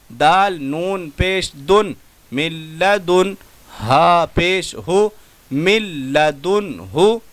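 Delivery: measured syllable-by-syllable chant; tajweed spelling recitation. Shown as a demonstration. Teacher spelling out words for the class, chanted. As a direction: spell each letter, then join the word.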